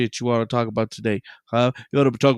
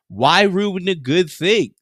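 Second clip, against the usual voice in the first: slow emphasis; 5 semitones higher, 5 dB louder, slower than usual. Real, not acted.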